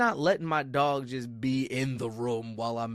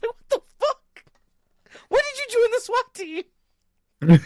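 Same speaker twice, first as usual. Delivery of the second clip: high, slow, much louder squeal of disbelief; shocked disbelief; 7 dB louder, slower than usual. Retold or imitated. Narrator retelling seeing his dog open a door, high shocked squeal. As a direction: squeak it out like you can't believe your eyes. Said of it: "I was like".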